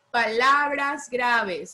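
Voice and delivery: slow dictation of a title; dictating. Real, not acted. Teacher gives pupils a title to copy, slow dictation. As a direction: dictate it slowly for note-taking.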